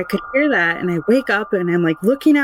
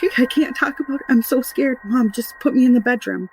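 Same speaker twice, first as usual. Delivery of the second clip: higher-pitched pleading, imitating a frightened daughter; retold scared child; 5 semitones higher than usual. Scared daughter begging mom to move her, imitated plea. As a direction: beg mom, lightly acted fear.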